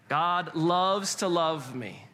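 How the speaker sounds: slow, evenly stretched words; deliberate, unhurried group recitation; leading unison recitation. Shown as a demonstration. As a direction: draw each word out for the room to join. Leads the congregation's repeated phrase.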